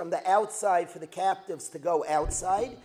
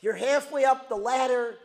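hurt reproach; 5 semitones higher, 7 dB louder than usual. Retold or imitated. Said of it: "So what are they saying?".

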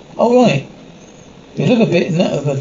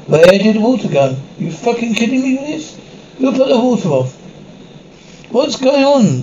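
high-pitched, indignant outburst; angry disbelief; 5 semitones higher than usual. Acted. Prisoner finds the water has been cut off, high-pitched angry disbelief. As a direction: demand answers in raised-pitch outrage.

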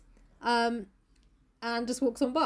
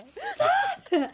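laughing mock scold; 3 dB louder than usual.

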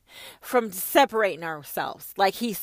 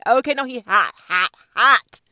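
1 hyped up; 2 semitones higher, 11 dB louder than usual. Real, not acted. Playful hype about God.

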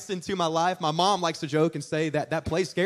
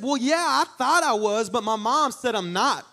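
high, put-on child voice; high and innocently puzzled; little kid's reply; 6 semitones higher, 3 dB louder than usual. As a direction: answer like a guileless six-year-old. Voices himself as six-year-old.

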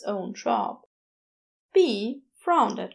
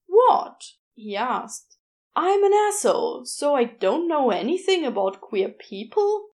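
higher, louder sarcastic comeback; indignant retort; 4 semitones higher, 5 dB louder than usual. Acted. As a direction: bristle at the curious looks. Gabriel defending himself indignantly.

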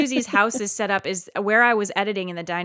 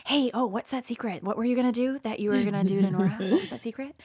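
put-on hushed, casual prying to a child; softly fish for a secret; retold coaxing; 6 dB quieter, faster than usual.

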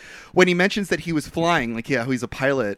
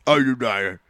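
put-on Cockney, pitched lower; mock Cockney accent; 5 semitones lower, slower than usual. Mocking Christian Bale's accent in the movie, low Cockney. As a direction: imitate an actor's Cockney accent. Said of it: "He's doing, like, a Cockney accent".

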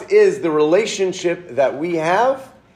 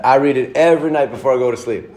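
put-on Southern accent; faster than usual. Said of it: "in his great Southern accent".

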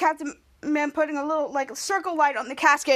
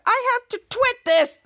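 excited; 8 semitones higher, 4 dB louder, slower than usual. Acted. Character eager to tweet.

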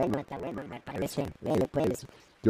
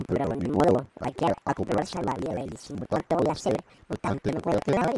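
robot voice. Acted. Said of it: "bobot de robot?".

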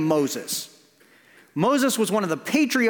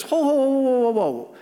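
startled, raised whoa whoa; Moses protesting; 4 semitones higher than usual. Retold or imitated. Moses balking at God's call, startled and raised. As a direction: back away from the job in alarm. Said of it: "And Moses goes".

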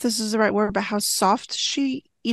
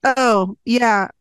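mock flustered husband; 2 semitones higher, 5 dB louder, much slower than usual.

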